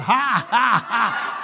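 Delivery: spaced-out forced "ha ha ha"; deliberate laugh. Shown as a demonstration. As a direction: laugh on purpose, each ha separate. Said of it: "Just laugh on purpose".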